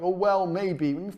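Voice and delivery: slow, drawn-out mock hesitation; unsure seller. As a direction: drag it out like you doubt yourself. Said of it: "you're all like".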